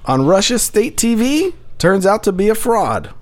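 slow, deliberate headline reading. Shown as a demonstration. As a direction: read it out like a headline. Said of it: "Headline reads".

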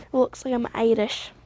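badly faked Irish accent; half-hearted mock Irish lilt; awful Irish accent. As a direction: attempt a vague Irish-Scottish accent, badly. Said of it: "I'm doing a Scottish accent. This is a, this is an awful Sc-, Scottish accent. I mean, Irish accent".

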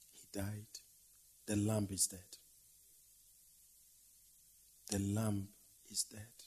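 hushed mourning. Acted. Preacher mourning the lamb to the congregation, hushed. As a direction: let it fall to a whisper.

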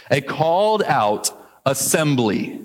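"called" stressed, slow and deliberate; slow repeated definition. Shown as a demonstration. Pastor repeating the definition for emphasis. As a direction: repeat it so it sinks in. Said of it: "here's the literal translation".

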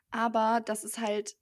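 slightly hoarse speaking voice; a hoarse voice that is starting to go. Real, not acted. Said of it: "jetzt bin ich voll heiser".

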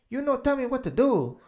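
high, loud, indignant mock Asian accent. Smoker cussing out the man who scolded him, indignant mock Asian accent. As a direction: rant back in a caricatured Asian accent. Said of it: "Some fucking Asian fuck".

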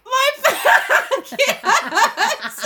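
put-on high whiny child. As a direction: whine it like a kid. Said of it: "you were like".

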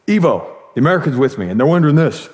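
brisk imitated caller skipping pleasantries; cold, curt phone call. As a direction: straight to business, fast. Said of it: "that just feels cold to me".

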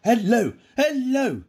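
high, loud, drawn-out phone hello; Victor Meldrew impression. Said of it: "the way he answered it, in that sort of".

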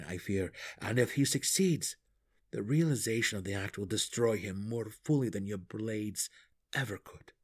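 lightly voiced grave gnome. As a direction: explain it steadily, a hint of character voice. Narrator voices the deep gnome.

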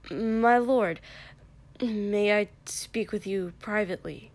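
urgent hissed stage whisper. A narrator's reading. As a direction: hiss it back with heat. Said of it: "he hissed back".

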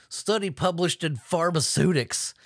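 a hint of a silly announcer voice; mock fancy pronunciation of the journal name; odd put-on read. Reading the study source in a goofy voice. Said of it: "I don't know why I said it like that".

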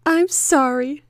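slow, soft sorry; soft shy apology. Acted. Anne apologising after the kiss, soft and slow. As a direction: apologise shyly and slowly. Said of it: "she said".

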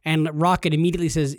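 ordinary talk, nothing marked

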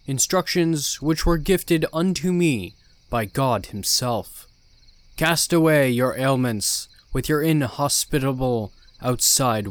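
slow, loud, solemn preacher; cult leader preaching. Acted. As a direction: preach with grand calm authority.

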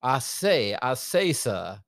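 lightly voiced old Southern cartoon accent; a hint of old-time Southern bluster; Foghorn Leghorn. Co-host demonstrating the old Richmond accent, light Southern impression. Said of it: "like, the Foghorn Leghorn Southern accent".

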